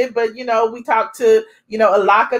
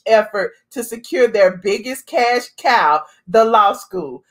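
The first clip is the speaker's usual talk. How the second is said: gossip voice. Retold or imitated. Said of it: "This our gossip voice".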